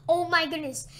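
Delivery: exasperated exclaim. Real, not acted. Exasperated at teammate.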